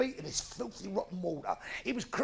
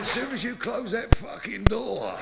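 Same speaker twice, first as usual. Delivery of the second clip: shouted punchline. Acted.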